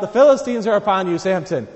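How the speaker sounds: loud, fast alarm call to Samson; crying out. Retold or imitated. Delilah warning Samson, loud fast cry. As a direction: shout the warning quickly as Delilah. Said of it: "cries out".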